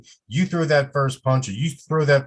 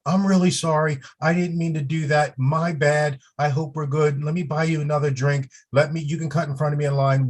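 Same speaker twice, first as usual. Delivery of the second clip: apologetic peacemaker; 2 semitones higher than usual. Shown as a demonstration. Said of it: "put those hands up and say".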